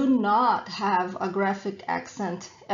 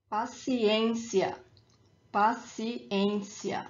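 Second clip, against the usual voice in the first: very slow paciência, pa-ci-ÊN-cia; stress on accented ê; slower than usual. Shown as a demonstration. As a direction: draw out paciência syllable by syllable, stressing ÊN. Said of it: "the emphasis is where the accent is".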